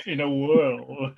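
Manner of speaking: slow, drawn-out trailer announcer; movie trailer voice. Shown as a demonstration. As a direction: stretch it like an epic trailer line. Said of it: "I sounded like the trailer guy then".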